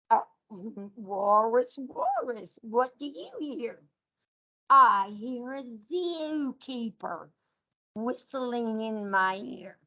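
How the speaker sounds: sing-song picture book read to a class; reading to children. Acted. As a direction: read it out like storytime for little kids. Teacher reads animal picture book.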